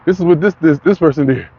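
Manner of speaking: high, whiny mocking quote; high whining mock lecture from the left-leaning news. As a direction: mimic a preachy complaining network. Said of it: "not whining and say".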